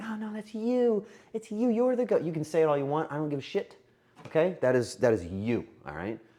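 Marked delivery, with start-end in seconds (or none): 0.0-2.2 play-acted shy, coy, high, bashful voice. Showing the audience how they could react, playing bashful. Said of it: "play, you know, bashful and just be like".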